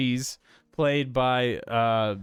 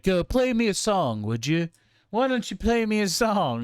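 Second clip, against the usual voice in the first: taunting request; 8 semitones higher than usual. Retold or imitated. Acting out Gurney training scene banter.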